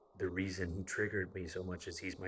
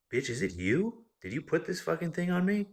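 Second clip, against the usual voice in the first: loud, much higher shouted accusation; furious accusing yell; 10 semitones higher, 8 dB louder than usual. Retold or imitated. Husband yelling at his wife after a nightmare, furious. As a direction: scream it at her like she cursed you.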